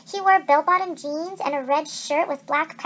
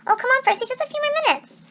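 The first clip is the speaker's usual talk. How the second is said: whiny pleading; 9 semitones higher than usual. A narrator's reading. Annabeth whining to keep playing.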